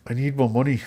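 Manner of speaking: high, far-off put-on Irish brogue; Brad Pitt Irish accent. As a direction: do a hammy movie Irish accent. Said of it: "the Brad Pitt voice is how you do the Irish accent".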